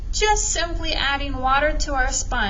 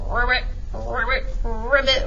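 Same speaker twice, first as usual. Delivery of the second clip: frog ribbit. Retold or imitated. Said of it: "Almost sounds like a frog".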